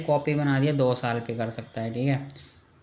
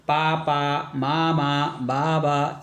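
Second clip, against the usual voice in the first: put-on baby babble; much slower than usual. Shown as a demonstration. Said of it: "बाईसिलेबल".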